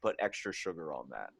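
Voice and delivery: put-on lightly caricatured American accent; a mild stock American food-order voice; American accent impression. Mimicking an American ordering food, light American caricature. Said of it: "American's probably gotta be the easiest".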